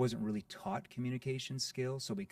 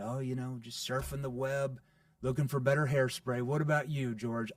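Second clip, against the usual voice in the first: playful; 4 dB louder than usual. Shown as a demonstration. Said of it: "I'm using a playful tone".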